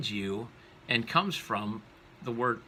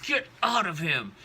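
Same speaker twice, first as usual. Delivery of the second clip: loud, raised exorcising order; forceful command; 7 semitones higher, 5 dB louder than usual. Acted. Jesus commanding the spirit out.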